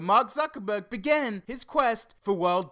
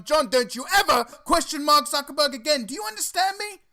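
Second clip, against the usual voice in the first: louder, higher, a hammed-up warning; mock threat; 5 semitones higher, 4 dB louder than usual. Host warns a viewer not to question Zuckerberg, loud and mock-menacing. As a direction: scold him like a cult's enforcer. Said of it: "Let's try not to threaten our viewers".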